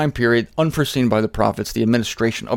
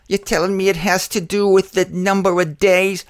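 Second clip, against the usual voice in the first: higher, disbelieving question; skeptical objector; 6 semitones higher than usual. Retold or imitated. Preacher voicing an objector doubting the day count, incredulous. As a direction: lightly voice a doubting listener. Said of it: "imagined objector's question".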